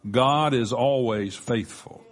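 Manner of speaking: "always" given the weight of the sentence; stress on always. Shown as a demonstration. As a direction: lean on "always" in God is always faithful. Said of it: "Emphasis on the word always".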